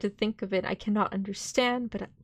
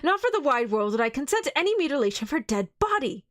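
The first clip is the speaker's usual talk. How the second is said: higher, louder outraged pleading; passionate anger; 6 semitones higher, 3 dB louder than usual. Acted. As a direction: protect her grave with fury. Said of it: "cried Arthur in a storm of passion".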